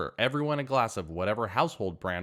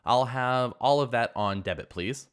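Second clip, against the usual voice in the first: self-assured order, a bit louder; confident; 3 semitones higher, 4 dB louder than usual. Retold or imitated. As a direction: announce it with cool confidence. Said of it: "and said confidently".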